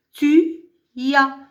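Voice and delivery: "tu y as" in two pieces, "tu" then "y as"; liaison marked. Shown as a demonstration. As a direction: model "tu y as" for pupils to repeat. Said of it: "Avec moi, mes chéris".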